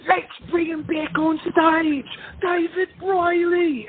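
high, chirpy mock host voice, with the name drawn out slowly; mock cheery cruise director. Cruise director Stu cheerfully calling the singer back, in a high mock emcee voice. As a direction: hams up an oblivious emcee gushing into the mic. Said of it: "him go".

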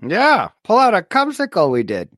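put-on high-pitched Minnesota accent. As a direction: play along in Minnesota accent. Joining the Minnesota bit.

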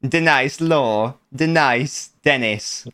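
slow, hammed-up Jamaican DE-NICE for Dennis; badly faked Jamaican accent, slowly. Shown as a demonstration. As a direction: draw out "The nice" like a mock Jamaican. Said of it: "You gotta say it in a Jamaican accent".

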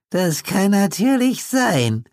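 put-on very high, slow reedy old man; ominous old man, slow and thin; high creepy old codger, drawn out; reedy old Pete. A narrator's reading. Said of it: "sagte Pete".

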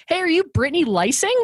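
high-pitched, questioning call; high voice calling from a car; imitated car passengers. Strangers calling from car window.

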